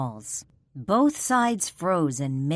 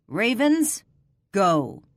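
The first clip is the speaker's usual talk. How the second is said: loud, higher call to his men; commanding shout; 4 semitones higher, 5 dB louder, slower than usual. Acted. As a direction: call the order out sharply.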